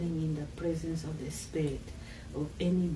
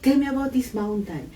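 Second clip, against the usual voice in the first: higher, louder, lively teasing questions; playful chat; 5 semitones higher, 6 dB louder than usual. Retold or imitated. Elder joking with the mountain, playfully eager. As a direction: banter with the mountain like a pal. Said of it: "even joke with the mountain".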